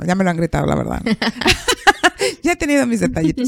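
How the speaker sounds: laughing through the words; wry admission breaking into laughter; amused. Real, not acted. Joking about being yelled at.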